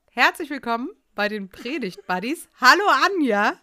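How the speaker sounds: stifled giggles behind the words; holding back a grin, voice lifting; suppressed grin. Real, not acted. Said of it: "mit so einem unterdrückten Grinsen". (mit unterdrücktem Grinsen)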